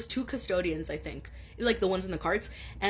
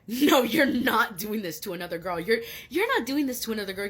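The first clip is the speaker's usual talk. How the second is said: retold angry refusal; 2 semitones higher, 4 dB louder than usual. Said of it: "and I'm like".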